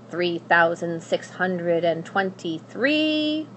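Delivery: slow, dry counting, barely looking up; a hint of a bored old witch; lightly voiced witch counting. Witch counting gold, ignoring the princess, lightly voiced.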